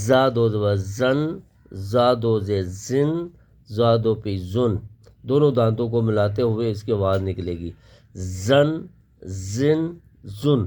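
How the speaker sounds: زا with both teeth together; teacher drills the hard ز. Shown as a demonstration. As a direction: press the teeth shut on زن. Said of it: "سخت پڑھیں گے".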